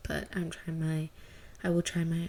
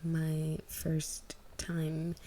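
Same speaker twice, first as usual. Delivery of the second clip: whisper; 4 dB quieter, slower than usual. Real, not acted. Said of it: "whispered intro".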